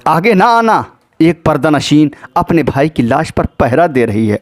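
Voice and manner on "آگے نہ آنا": higher-pitched retold call, last word stretched; calling out a warning. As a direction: call out to halt approaching strangers, without shouting. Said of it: "آپ نے آواز دی".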